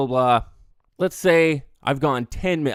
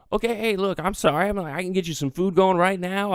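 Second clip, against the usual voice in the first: acted placating; 5 semitones higher than usual. Bartender placates angry customer.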